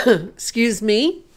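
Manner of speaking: through a cough. Real, not acted. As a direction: clear the throat and excuse yourself. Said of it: "apologize for all the coughing and spluttering".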